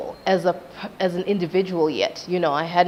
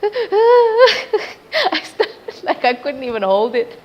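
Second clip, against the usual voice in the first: high mock sobbing mixed with laughter; imitated crying; 12 semitones higher, 6 dB louder, much slower than usual. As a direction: act out bursting into tears, half laughing. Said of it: "why are you crying".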